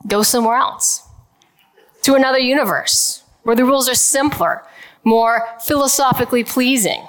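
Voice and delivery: a light hint of a Brooklyn accent. Physicist quoting Feynman to the audience, light Brooklyn accent. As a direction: quote Feynman with a touch of Brooklyn. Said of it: "imagine this in his Brooklyn accent".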